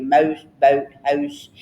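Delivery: imitated Canadian OH in 'mouse, boat, house'; Canadian accent. Wife mimicking her husband, imitated Canadian accent. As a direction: list them with Canadian rounded vowels. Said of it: "like I said, it'll be".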